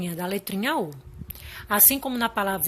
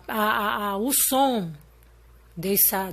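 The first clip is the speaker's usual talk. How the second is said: ordinary talk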